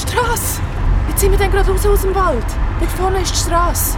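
high, loud and fast; excited relief. Acted. Zoe points Michi to the road, excited. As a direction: blurt it out with sudden hope.

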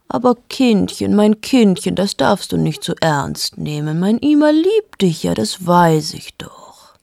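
put-on a touch of doting older woman, soothing; motherly comfort. Vera comforts the weeping narrator, lightly doting. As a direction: coo over the crying girl.

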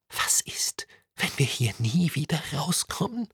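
a fearful, toneless whisper; boy confiding his fear in a dark tunnel, whispering; frightened whisper. A narrator's reading. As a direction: breathe the worry so no one hears.

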